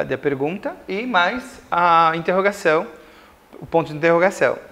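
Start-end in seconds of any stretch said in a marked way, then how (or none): none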